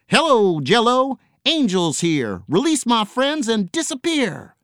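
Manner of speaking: high, loud cheery pirate calling from above; cheerful call. A narrator's reading. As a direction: sing it out bright like a hero arriving. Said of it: "called cheerfully".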